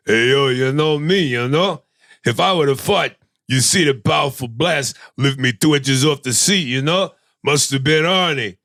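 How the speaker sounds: light celebrity impression, slurred tough-guy lilt; lightly voiced movie tough guy making excuses; Sly Stallone. Passenger denies blame in the car joke, celebrity impression. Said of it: "Sly Stallone".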